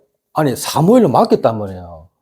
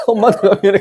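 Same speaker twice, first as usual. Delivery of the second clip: higher-pitched imitation of a child; apologetic child; 7 semitones higher than usual. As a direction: play the child apologizing to mom. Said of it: "내가 너무 화내보니까".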